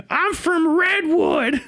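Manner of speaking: high, slow shouted hick boast; desert hick voice. Retold or imitated. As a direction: yell it like a proud wild local. Hick shouts his town.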